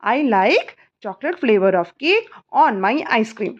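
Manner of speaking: very slow, word by word; slow dictation. Shown as a demonstration. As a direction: dictate slowly so the child can write. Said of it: "slow dictation of answer". (धीरे धीरे लिखवाना)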